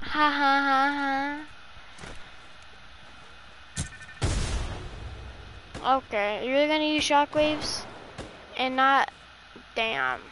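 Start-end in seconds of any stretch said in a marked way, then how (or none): 0.0-6.0 big laugh. Real, not acted. Laughing at teammate.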